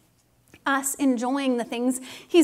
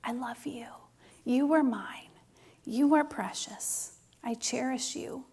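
soft unvoiced whisper into the ear; hushed loving whisper; 6 dB quieter than usual. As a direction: whisper it close, like to a baby in your arms. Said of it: "he was just whispering into my ear".

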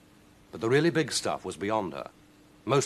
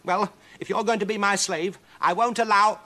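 high, loud put-on bold witch; witch faking boldness; 12 semitones higher, 8 dB louder than usual. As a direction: bluster to hide fear. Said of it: "trying to seem bold".

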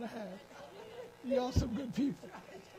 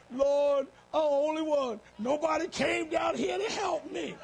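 self-pitying wail; 3 semitones higher, 4 dB louder than usual. Retold or imitated. Self-pitying prayer on the floor.

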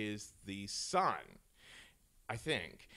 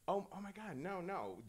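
tag; 5 semitones higher, 8 dB quieter than usual. Acted. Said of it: "go back and forth between".

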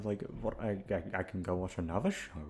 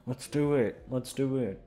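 let's do it, let's do it, cheered higher and louder; mock hyped self-pep; 4 semitones higher, 3 dB louder than usual. Vlogger quoting her own hype to start recording, excited. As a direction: pump yourself up, half-joking.

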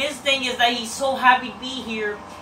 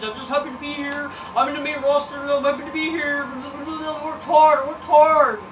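mocking indie wrestler; 4 semitones higher, 5 dB louder than usual. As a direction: build from gushing to a proud shout.

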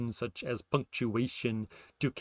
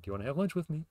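higher question tune; 6 semitones higher, 3 dB quieter, much faster than usual. Shown as a demonstration. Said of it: "intonation goes up at the end".

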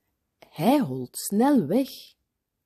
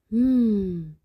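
long "hmm" of enjoyment; savouring hum. A narrator's reading. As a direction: hum as if tasting something good. Boy savours a sip of juice.

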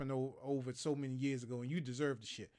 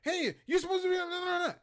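high, loud scolding yell; a boss snapping at a worker mid-task; 6 dB louder than usual. Retold or imitated. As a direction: bark it like an annoyed boss cutting in. Boss yelling at him at work.

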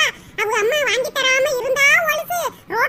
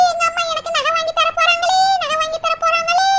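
gleeful sing-song; 3 semitones higher than usual. Acted. Daughter celebrating mother's promise of jewellery, gleeful sing-song. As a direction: chant it out in childish glee.

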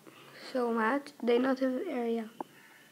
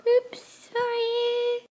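surprised; 10 semitones higher, slower than usual. Acted. Sudden mishap.

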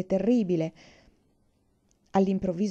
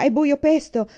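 loud, raised shout into the dark; 7 semitones higher, 7 dB louder than usual. A narrator's reading. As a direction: shout to be heard over the water. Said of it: "urlò papà".

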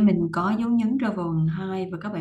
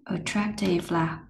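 whisper; slower than usual. Real, not acted. Teacher gives meaning.

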